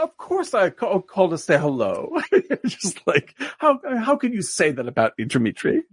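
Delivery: high, wounded, sugary politeness; passive aggressive. Retold or imitated. President acting offended with the premier, passive aggressive. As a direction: act hurt to guilt him. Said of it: "he's so passive aggressive".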